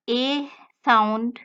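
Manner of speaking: A said as German "eh", mouth partly open; German E vowel. Shown as a demonstration. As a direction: pronounce A as a pure German E. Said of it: "pronounce the German".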